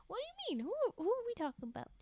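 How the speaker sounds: high, fast, laughing disbelief; incredulous laughter. Real, not acted. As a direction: blurt out baffled questions through a laugh. Baffled by story character.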